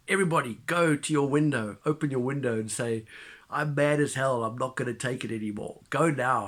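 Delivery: ranting call to rise up. Retold or imitated. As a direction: shout it like a mad prophet on air. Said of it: "he goes on this tirade".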